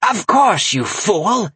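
high, scornful crone bark; barking witch. Acted. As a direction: snap at the fool. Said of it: "she barked".

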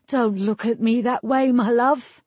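stage-whispered plea, fully voiced. A narrator's reading. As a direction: plead with a lover, as if hushed. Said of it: "he whispered".

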